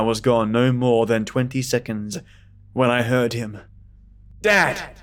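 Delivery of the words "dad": scream. Acted. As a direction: scream out in terror. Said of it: "Ben screamed".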